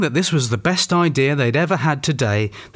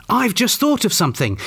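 high-pitched, important-sounding announcement; self-important exclamation; 9 semitones higher than usual. A narrator's reading. Janet tells the gang of her idea, exclaiming importantly. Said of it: "exclaimed Janet, sounding even more important".

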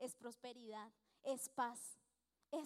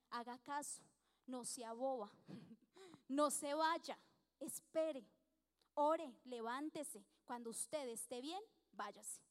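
firm pastoral advice; 3 dB louder, slower than usual. Retold or imitated. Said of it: "ella literalmente me dijo así".

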